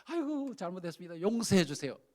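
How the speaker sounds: hammed-up grovelling apology; pleading. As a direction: act out begging for mercy. Acted begging for pardon.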